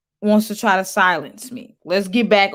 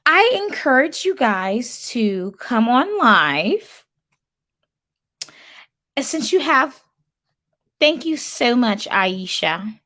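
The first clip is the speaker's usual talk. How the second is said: put-on white girl voice; 3 semitones higher than usual. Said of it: "read these comments in my white girl voice".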